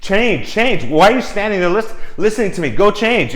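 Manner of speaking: frantic designer. Retold or imitated. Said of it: "designer's like".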